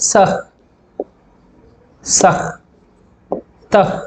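సహ్, సహ్, తహ్, each ending on h; visarga breath shown. Shown as a demonstration. Teacher showing visarga as bare consonant, సహ్, తహ్ with breathed h. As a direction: isolate సహ్ and తహ్, puffing out the final h. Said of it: "ఈ విధంగా పొల్లులు పలుకుతాం".

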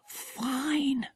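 breathy whisper from the hide; barely voiced, keeping hidden. A narrator's reading. Hiding in the bush beside the eagles, whispering. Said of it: "whispered Jack".

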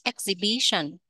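Exhibition stressed on "bi", ex-hi-BI-tion; teacher models Exhibition, punch the third syllable. Shown as a demonstration. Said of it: "Nhấn âm thứ ba". (nhấn âm thứ ba của Exhibition)

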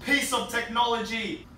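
overhyped salesman. Acted. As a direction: sell it like a miracle gadget. Hypes soft closing toilet.

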